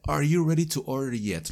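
"Are you ready to order yet?" with yet tacked on softly; "yet" added as a flourish. Shown as a demonstration. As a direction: add the little extra yet at the end. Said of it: "le puedo agregar este".

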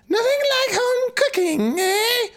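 very high, cackling crone; cackling witch voice. Acted. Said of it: "it's a cackling voice".

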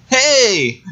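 mock French greeting. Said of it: "Pauly Shore is like".

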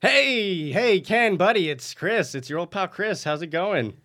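high, loud, overly chummy greeting; fake friendly. Chris phones the boss he plans to kill, fake-friendly. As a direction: sound like his best buddy.

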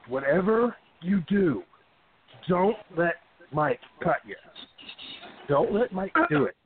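slow, spaced-out mock warning; retold grave warning. Wrestlers warning each other about Mike, slow mock-grave warning. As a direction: warn it slowly, word by word.

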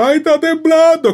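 high-pitched fake whimper; hammed-up gimmick of someone crying; mock fake crying. Imitating a singer's earthquake story, mock crying. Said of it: "como haciendo un gimmick de alguien llorando".

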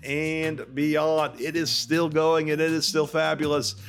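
hammy, drawn-out outro read; big, theatrical sign-off with swooping pitch; podcast announcer. Acted. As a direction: stretch key words like a show announcer. Podcast outro read over music.

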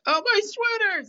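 high, loud, slow mock wail; Larry. Larry losing his sweater to the ambulance, loud mock wail. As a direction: imitate a stretched-out cry over something lost. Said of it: "in that Larry way".

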